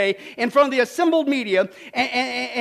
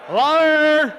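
louder scornful shout of liar; loud mock accusation; 4 semitones higher, 8 dB louder than usual. Preacher jeering at a politician's broken promise. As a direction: spit out the word liar.

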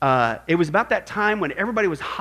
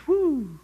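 relieved whoo; 8 semitones higher than usual. Retold or imitated. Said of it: "it was such a relief".

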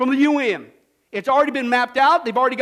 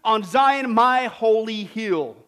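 louder, proclaiming decree, slowing at the end; God's wrathful decree; 3 semitones lower, 4 dB louder, slower than usual. Acted. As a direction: thunder it like a divine king. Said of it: "terrifies them in his wrath, saying".

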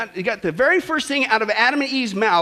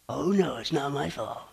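whiny complaint; 9 semitones lower, 10 dB quieter than usual. Retold or imitated. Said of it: "They complained".

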